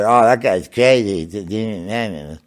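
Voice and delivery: slow, drawn-out dismissive scoff. Retold or imitated. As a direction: scoff at him slowly. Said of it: "they'll all say".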